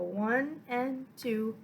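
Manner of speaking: slow, even rhythmic count; counting the beat. Shown as a demonstration. Violin teacher counting into the eighth notes, slow rhythmic count. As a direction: count it out in steady, stretched beats. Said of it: "And then you're gonna go".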